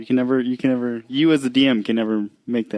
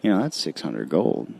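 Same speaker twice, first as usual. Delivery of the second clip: hand over mouth; 5 semitones lower than usual. Acted. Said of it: "whisper into my hand".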